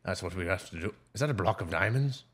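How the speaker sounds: laughing pirate talk; pirate with a chuckle. Acted. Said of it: "the pirate voice".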